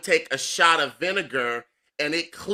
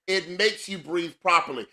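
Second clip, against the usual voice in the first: usual speaking voice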